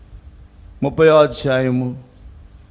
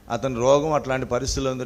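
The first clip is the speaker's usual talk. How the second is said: normal talking voice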